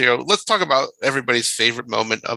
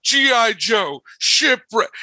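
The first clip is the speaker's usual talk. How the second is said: higher-pitched, punched-out exasperated quote; emphatic quote; 7 semitones higher than usual. Retold or imitated. Host quoting a favorite scene to co-hosts, emphatic. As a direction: list each one as if outraged, pitched up.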